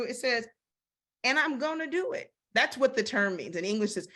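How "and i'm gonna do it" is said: sassy voice. Shown as a demonstration. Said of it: "I hear it in this voice".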